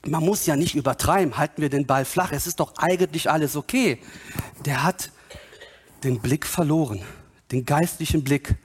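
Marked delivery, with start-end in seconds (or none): 0.0-4.0 lower, casual play-it-down voice; lightly acted calm dismissal; complacent objector. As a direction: play down the urgency. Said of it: "wenn jemand dann vermutet oder sagt".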